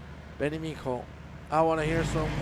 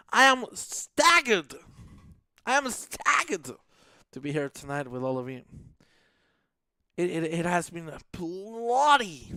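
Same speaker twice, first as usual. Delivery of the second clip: mock-British delivery, lingering on the big words; attempted British accent; 3 semitones higher, 3 dB louder than usual. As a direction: have a playful go at sounding British. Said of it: "that's my attempt at being British".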